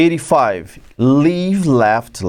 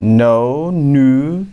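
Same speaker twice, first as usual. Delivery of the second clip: normal talking voice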